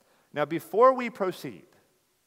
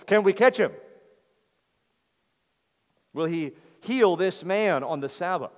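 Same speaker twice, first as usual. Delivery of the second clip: scheming Pharisee; 4 semitones higher, 5 dB louder than usual. Retold or imitated. Preacher voicing scheming Pharisees.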